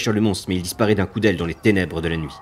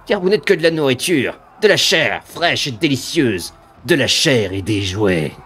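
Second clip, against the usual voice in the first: slow, higher, strained threat; piercing demon voice; 4 semitones higher, 4 dB louder, slower than usual. Acted. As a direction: menace to reassure himself. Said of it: "La voix se fait plus perçante".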